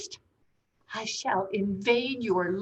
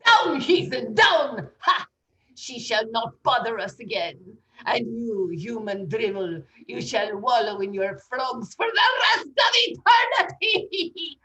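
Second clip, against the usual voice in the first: laying a curse; 3 dB louder than usual. Acted. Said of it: "High Priestess of Saltania".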